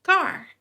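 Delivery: car with an English r, pitched high; high, clear model of English car; English pronunciation. Shown as a demonstration. Teacher shows learners the English word, car clearly pronounced. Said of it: "pero en inglés decimos".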